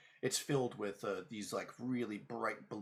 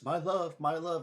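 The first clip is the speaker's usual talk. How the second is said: loud, high cry of devotion; impassioned cry; 8 semitones higher, 9 dB louder than usual. Acted. Ghostly knight to his reunited love, impassioned loud cry. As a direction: call out as an overwhelmed lover. Knight falls to knees before lover.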